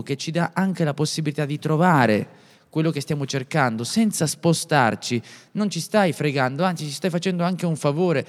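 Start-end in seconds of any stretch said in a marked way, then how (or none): 5.5-8.2 blocked nose from a cold; stuffy nose. Real, not acted. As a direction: talk through a stuffy head cold. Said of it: "se anche ho la voce raffreddata".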